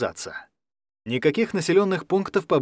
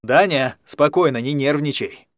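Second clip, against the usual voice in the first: firm, louder steadying words; calm him down firmly and loudly; clear and loud. Acted. Алекс steadies the frightened Даня, clear and loud. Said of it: "чётко и громко произнёс он".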